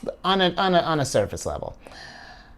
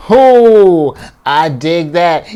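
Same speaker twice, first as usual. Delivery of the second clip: excited; 3 semitones higher, 12 dB louder, much slower than usual. Real, not acted. Reacting to drawn card.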